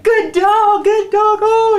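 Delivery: very high, loud, gushing praise; high dog praise. Shown as a demonstration. Praising the dog the moment it sits, very high and loud. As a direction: gush over the dog in a sky-high voice. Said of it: "your voice is really high like this".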